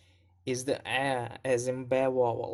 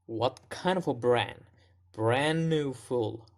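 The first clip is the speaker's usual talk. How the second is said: "brand" stressed and lengthened. Shown as a demonstration. Teacher breaks down the movie line, heavy stress on "brand". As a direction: lean on "brand" with an up-down shape. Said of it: "Lots of stress on brand".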